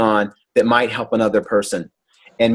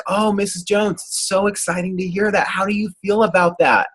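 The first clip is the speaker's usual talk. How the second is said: gentler praise; 8 semitones higher than usual. Retold or imitated. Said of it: "It's a little different".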